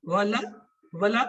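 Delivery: ولا pronounced "wa-laa" with a clear la; wala sound. Shown as a demonstration. Teacher demonstrating the sound that changes the meaning. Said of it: "آواز نکلتی ہے ولا".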